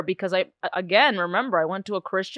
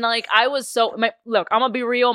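ordinary talk

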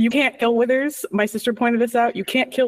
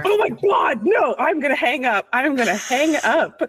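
high shocked outcry; horrified shock; 5 semitones higher than usual. Real, not acted. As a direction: recoil in horror. Horrified at marrying Cazador.

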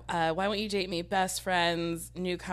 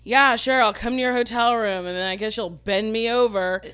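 sarcastic; 7 dB louder than usual. Retold or imitated. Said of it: "And I'm like".

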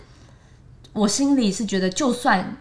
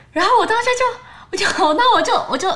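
higher, louder laughter through the words; laughing; 13 semitones higher, 4 dB louder than usual. Real, not acted. Speaker laughs remembering the huge gift, high and loud. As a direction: crack up in disbelief.

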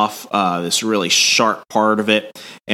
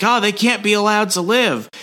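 high, snooty prince voice; haughty prince; 12 semitones higher than usual. Retold or imitated. Prince condemning the caller, high and haughty. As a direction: sneer it like a spoiled royal. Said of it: "he's like".

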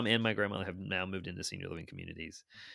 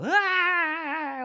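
mock scream; 10 dB louder than usual. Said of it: "she's screaming going down this hill".

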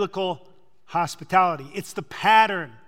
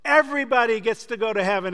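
mock sweet preacher; 5 semitones higher, 5 dB louder than usual. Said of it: "expects Jesus to look at him and say".

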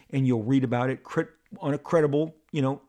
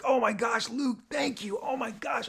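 choked up; 9 semitones higher than usual. Retold or imitated. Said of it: "And I'm like".

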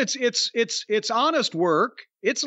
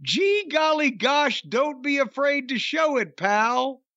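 mocking goody-goody voice; 4 semitones higher than usual. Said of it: "he actually said".

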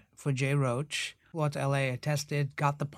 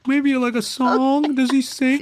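scheming actor; 9 semitones higher, 7 dB louder, slower than usual. Retold or imitated. Angling for more lines.

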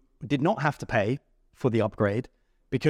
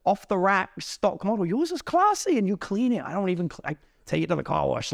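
mock flattering protest; 6 semitones higher than usual. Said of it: "I was like".

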